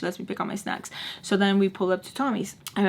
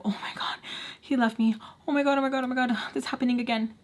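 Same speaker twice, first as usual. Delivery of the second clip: breathy whisper rising into a higher fretful rush; retold anxiety; 4 semitones higher, faster than usual. Retelling the fear of being left, mock-anxious and hurried. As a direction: mimic your own mounting panic. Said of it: "it literally triggers that anxiety".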